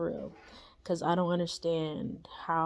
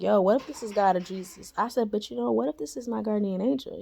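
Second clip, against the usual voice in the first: excited; 4 semitones higher, 5 dB louder, faster than usual. Retold or imitated. Excited wondering about the voice.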